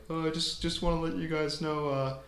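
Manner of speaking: stammering awkward teacher; hesitant, halting delivery. Retold or imitated. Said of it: "and he goes like".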